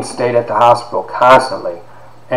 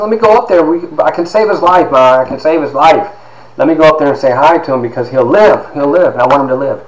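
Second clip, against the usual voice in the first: put-on high-pitched little boy begging his mother; young boy pleading with his mom, voice pitched up; pleading child; 5 semitones higher than usual. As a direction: beg like a kid sure he can save a life. Child self begging to see grandfather.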